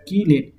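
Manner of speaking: कीलेट said "kee-late" with a hard k; demonstrated pronunciation. Shown as a demonstration. Teacher repeating how it is said, clear k sound. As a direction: say कीलेट as "key" plus "late". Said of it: "कैसे होता है?".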